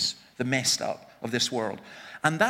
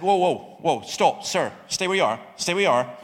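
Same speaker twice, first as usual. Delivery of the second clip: louder, firm warning call; calling out to stop him; 4 dB louder than usual. Retold or imitated. Speaker warning the charging man to stay back, loud firm call. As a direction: halt an advancing man with your voice.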